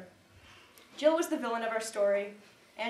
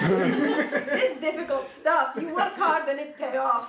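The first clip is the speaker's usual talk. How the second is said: put-on loud, higher Russian-accented pep talk; heavy Russian accent; 5 semitones higher, 8 dB louder than usual. Russian coach urging gymnasts to work hard, heavy Russian accent. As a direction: drive it home like a Russian coach, loudly. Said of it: "With his heavy Russian accent".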